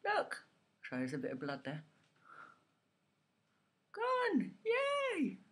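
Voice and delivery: talking with finger in mouth; lip pulled down by fingers. Real, not acted. Seen 0: Fingers hold lower lip down in every labelled frame; absent around them.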